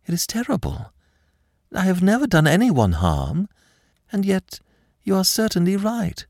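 fragile, high-pitched distress. A narrator's reading. Frightened girl admitting her rescuer is right, distressed. Terrified girl accepts she is threatened.

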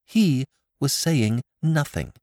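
a frightened daughter repeats her answer to her father, slow and shaky; voice shaking. A narrator's reading. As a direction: let the words quiver, slow. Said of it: "Molly's voice shook as she replied".

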